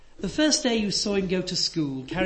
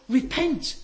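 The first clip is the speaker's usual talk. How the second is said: stern preacher's call; 7 semitones higher, 4 dB louder than usual. Retold or imitated. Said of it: "he preaches to thousands and he says".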